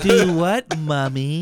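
giggling imitation of the girl; laughing repeat. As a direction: echo the kid line while cracking up. Repeating the kid line, laughing.

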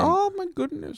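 put-on Indian accent. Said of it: "Your Asian accent is better than your Indian accent".

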